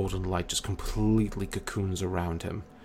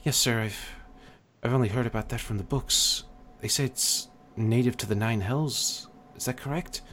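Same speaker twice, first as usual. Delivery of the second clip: deferential cleric; 4 semitones higher than usual. Acted. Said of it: "the other cleric kinda nods and goes".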